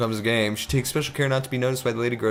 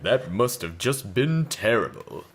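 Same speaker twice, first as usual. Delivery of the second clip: mock shocked lady; 3 dB louder, much slower than usual. Grocer lady reacting to the girl, hammed-up dismay.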